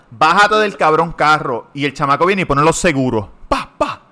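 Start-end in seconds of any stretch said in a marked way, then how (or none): 0.1-1.7 slow, louder retold command; mild mock yell; retold angry order. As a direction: demand he get out, spaced words. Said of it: "le digo al cabrón".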